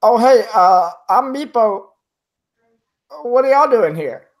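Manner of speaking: high, loud, squeaky little kobold voice; frightened kobold. Acted. Kobold Meepo greeting the party, high squeaky voice. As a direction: pipe up like a nervous little creature. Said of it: "he looks at you and he says".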